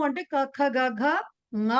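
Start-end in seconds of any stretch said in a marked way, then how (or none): 1.6-1.7 ङ said as a nasal 'nga'; nasal velar ng. Shown as a demonstration. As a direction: sound ङ as ng plus a short a, from the back of the mouth. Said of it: "అని పలుకుతాం". (ङ ను ముక్కుతో 'ంగ' లా పలకడం)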